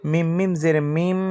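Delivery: last "মিম" with a held nasal m; ghunna. Shown as a demonstration. Teacher showing obligatory ghunna, "মিম" ending on a held nasal m. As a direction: hum the final m of "মিম" through the nose. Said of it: "অজীব গুন্না".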